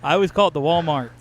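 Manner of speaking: Southern-style "the Walmarts". Shown as a demonstration. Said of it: "that's how they say it".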